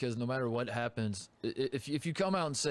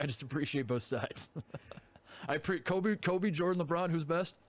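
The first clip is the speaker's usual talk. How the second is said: diplomatic analyst; 3 semitones higher than usual. Pretend. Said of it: "I never have takes".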